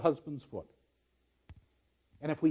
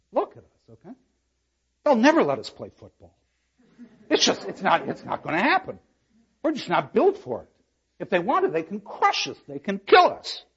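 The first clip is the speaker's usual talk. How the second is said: emphatic paraphrase; 3 semitones higher, 4 dB louder than usual. Acted. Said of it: "paraphrases Kate to the wives".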